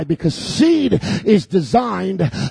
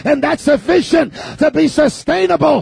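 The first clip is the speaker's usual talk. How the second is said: full-force preaching; 6 semitones higher than usual. Acted. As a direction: build the sermon to a climax.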